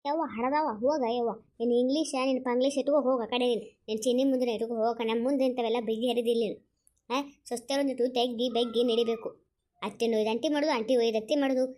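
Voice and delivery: loud, cross lecturing; angry scolding. Acted. Elder mocking a younger one's English manners, loud angry scolding. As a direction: tell them off loudly. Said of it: "ಯಾಕೆ ಈ ಪರಿ ಸಿಟ್ಟಾಗ್ತೀರಾ".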